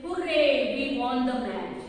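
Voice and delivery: जीत की खुशी में hurray चिल्लाओ; cheering hurray. Retold or imitated. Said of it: "घर पर आकर क्या बोलते हैं?". (खुशी से हुर्रे चिल्लाना)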